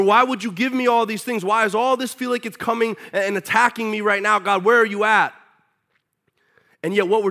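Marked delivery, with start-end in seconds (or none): 0.0-5.3 complaining to God. Retold or imitated.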